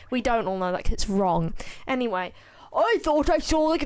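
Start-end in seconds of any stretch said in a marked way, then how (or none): 2.7-3.8 a hint of a lifted, bouncy idol voice; barely voiced Frye, cut short; lightly put-on Frye attempt. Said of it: "that's the worst Fry voice I've ever done".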